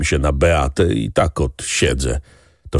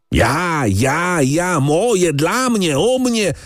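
furious mocking repetition, much higher; 11 semitones higher, much slower than usual. A narrator's reading. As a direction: spit out each "ja" in rising fury. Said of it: "Hrabia wpadł w furię". (wściekłe przedrzeźnianie, dużo wyżej)

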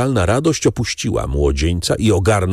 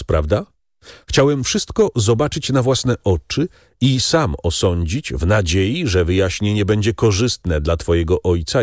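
earnest friend, lightly raised voice; Beauchamp's voice; 5 semitones higher than usual. Acted. Beauchamp tells Albert the truth, earnest and kind. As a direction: gently lay out the hard truth.

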